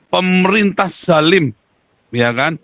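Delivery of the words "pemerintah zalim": slow, drawn-out mock chant of "Pemerintah zalim"; mock protester slogan. Host mocking protesters to his guest, slow mock slogan. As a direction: mimic the protesters' slogan, a touch higher and slower. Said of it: "Mereka bilang".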